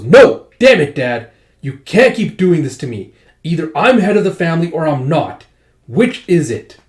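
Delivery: finally snapping at an overbearing father; angry shout. Acted. Joanna yells at her father over who heads the family, angry shout.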